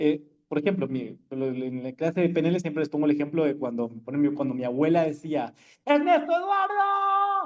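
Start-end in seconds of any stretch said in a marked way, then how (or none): 5.9-7.5 mock piercing, very high, shrill grandmother yell. Teacher retells how his grandmother yelled his name: imitating grandmother yelling. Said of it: "Y gritaba".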